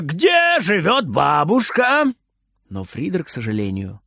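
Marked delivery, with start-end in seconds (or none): 0.0-2.1 urgent question. Acted. Passengers pressing the boy.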